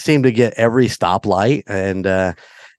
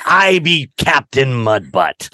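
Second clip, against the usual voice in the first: pirate voice; 2 semitones higher, slower than usual. Retold or imitated.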